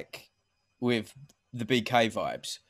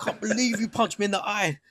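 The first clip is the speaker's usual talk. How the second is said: higher, laughing impression of an outraged fighter; hammed-up indignant whine, laughing through it; mock livid fighter; 7 semitones higher than usual. Co-host imitating the punched fighter, mock outrage, laughing. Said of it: "he was livid".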